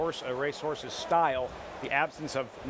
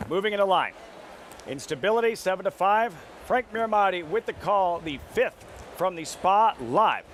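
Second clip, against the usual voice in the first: louder, rising hype; building excitement; 3 semitones higher, 4 dB louder than usual. Real, not acted. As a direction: pump up the race call. Studio host building to the race call.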